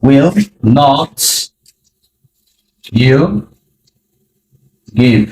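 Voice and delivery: each word alone after long pauses; slow word by word. Shown as a demonstration. Teacher demonstrating the question to learners, word by word. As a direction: build it one word at a time. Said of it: "ব্যবহার করব will".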